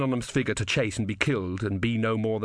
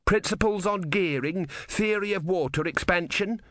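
shouted; 9 semitones higher than usual. A narrator's reading. Ern picking books to save, high-pitched calling. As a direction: call out each title high and drawn out. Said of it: "shouted Ern".

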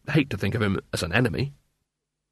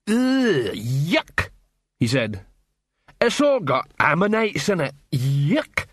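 troll voice; 4 semitones higher, slower than usual. Acted. Troll disgusted by bun.

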